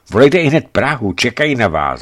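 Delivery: the guard happily reporting Prague waits; joyful. A narrator's reading. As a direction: announce it gladly. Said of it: "hlásí mi radostně".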